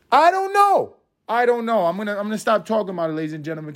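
tipsy. Real, not acted. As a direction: talk like you've had a few. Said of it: "'cause I'm a little tipsy".

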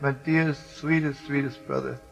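soft, tender retold plea; tender address. Soldier holding dying comrade's hand, tender. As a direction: speak it gently, softening as you go.

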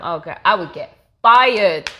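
loud laughing exaggeration. Real, not acted. Joking to the host, laughing.

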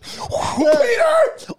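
high shouted call, very high; high mock yell. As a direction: yell a name after someone. Calling vanished friend.

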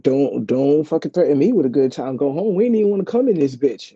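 loud, eager inner voice jumping at the chance; inner voice, gleeful. Retold or imitated. Voice in her head answering the manager, loud and eager. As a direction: let the voice in your head cheer the offer on. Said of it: "Voice in my head was like".

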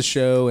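"show" said as "shay", the vowel flattened; regional show. Shown as a demonstration. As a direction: say "show" the local way. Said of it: "They would say it like that".

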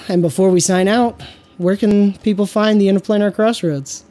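upbeat, quick sign-off announcer read; podcast outro read. Acted. Host reading the outro and sponsor plugs to viewers, upbeat announcer style. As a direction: sell the channel like a host wrapping up.

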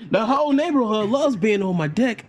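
imitating a New Zealand homeowner; New Zealand accent. Retelling a video's New Zealand dude. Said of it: "this New Zealand dude".

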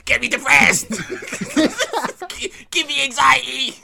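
joking exclamation. Acted. Joking loud demand, laughing.

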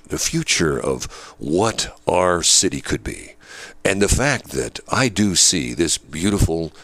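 mock a politician's empty uplifting speech; a hint of a hollow campaign orator; smooth politician. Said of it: "that's how they talk".

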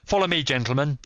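high cry, rising to anguish; anguished urgency. A narrator's reading. Stranger leading the rescuers, urgently crying out. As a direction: call them on, then cry out. Stranger finds they are too late.

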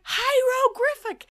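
"Hieroglyphic" ending in griffic; high, loud, slow "Hieroglyphic" as high-ro-griffic; mispronounced word. Retold or imitated. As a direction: insist on "Hieroglyphic" with R replacing its L. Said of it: "I could not pronounce hieroglyphics".

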